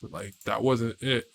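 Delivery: low, restrained scolding; serious talking-to. Acted. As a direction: set them straight, keeping it low. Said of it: "have a talk with you".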